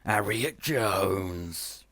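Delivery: slow, breathy gasp of shock; the Doctor recognises Harriet Jones, gasping; gasped name. Acted. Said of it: "he gasped".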